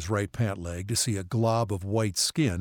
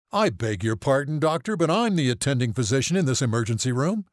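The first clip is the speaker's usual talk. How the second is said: raised pitch, louder, indignant; affronted ER physician; 5 semitones higher, 4 dB louder than usual. A narrator's reading. ER physician objecting to the family doctor, indignant. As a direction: assert your rank, affronted.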